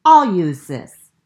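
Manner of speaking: resourceful Franklin. Acted. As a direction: offer it brightly.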